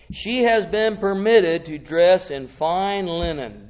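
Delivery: loud, slow, ringing reading; declaimed scripture. Acted. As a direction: proclaim the verse, weighting each phrase. Declaims scripture at full force.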